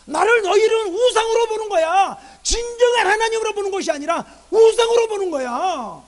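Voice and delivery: loud, high, slow denunciation with drawn-out endings; God rebuking. Acted. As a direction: thunder a reproach at the people. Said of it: "그렇게 말하고". (백성을 큰 소리로 꾸짖는 하나님)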